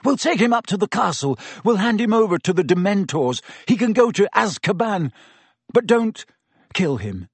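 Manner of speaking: high, breathless insistence; a touch out of breath; panting urgency. A narrator's reading. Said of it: "Harry panted".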